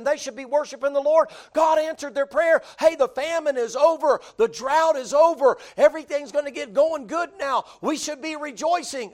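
loud, high fiery preaching; preaching at full force. Real, not acted. Preacher tells congregation they should be rejoicing, loud. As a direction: build to a ringing shout.

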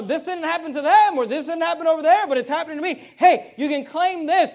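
loud, high, driving preacher voice; fiery revival preaching; preaching at full force. Acted.

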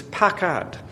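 pakad said slowly, each syllable pa-kad clear; Hebrew word said carefully. Shown as a demonstration. Preacher teaching his congregation a favorite Hebrew word, slow and careful. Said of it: "the word I'm about to say".

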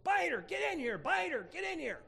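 high, loud dog call; imitated calling out. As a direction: holler for the dog in a woman's high voice. Woman calling her dog, retold.

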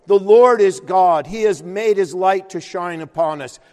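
loud, ringing reading of the psalm; proclaimed scripture. Acted. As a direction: cry the verses out like a prayer. Preacher proclaims psalm aloud.

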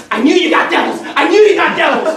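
mock fear, backing away; scared retort. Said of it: "backed up and got scared".

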